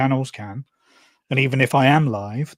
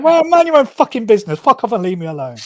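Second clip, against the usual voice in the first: loud, higher, furious snap; aggressive retort; 9 semitones higher, 8 dB louder than usual. Retold or imitated. Retelling telling off a security guard, loud and aggressive. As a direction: tell him off, full force. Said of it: "I was a bit aggressive".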